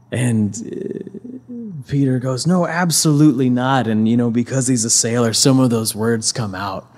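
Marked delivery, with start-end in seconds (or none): 2.5-3.9 louder, higher acted refusal; emphatic denial. Cornered disciple answering his accusers, emphatic denial. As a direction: deny it firmly, raising the voice. Peter denies more forcefully.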